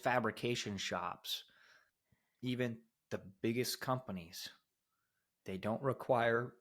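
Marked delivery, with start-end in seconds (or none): 5.4-6.5 talking through a burp. Real, not acted. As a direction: burp breaks into the words. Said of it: "I'm burping from my energy drink".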